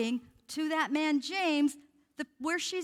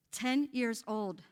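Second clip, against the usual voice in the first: each word set apart, slowly; a slow, heavy repeat for the congregation; slow emphatic repeat; slower than usual. Shown as a demonstration. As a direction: let ten years old sink in slowly. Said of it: "But look at the age group".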